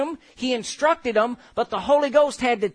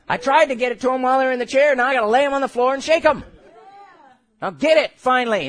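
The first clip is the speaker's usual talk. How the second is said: loud, fast, driven; animated preaching; 3 semitones higher, 5 dB louder, faster than usual. Retold or imitated. Preacher acting God's frustration, loud and fast. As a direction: push it out fast and loud like urging them. Preacher voicing God shaking people.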